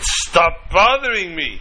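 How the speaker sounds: slow, drawn-out annoyed complaint; acted grumpy man wanting to be left alone; mock irritation. Woken guest to knocking hosts, mildly annoyed. Sleeper knocked at a second time.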